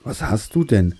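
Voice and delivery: gentle, lightly sympathetic question; compassionate. Acted. God asking the drooping tree what is wrong, compassionate. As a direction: ask with mild, fatherly concern. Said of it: "fragte Gott mitfühlend, wie er war".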